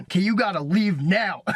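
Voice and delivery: half-joking order to leave. Retold or imitated. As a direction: tell her to go, playfully, not mad. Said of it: "In, like, kind of a joking way".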